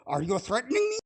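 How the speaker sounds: high mocking whine; mock high-pitched accusation; mocking quote. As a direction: parrot them in a high mock voice. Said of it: "They go".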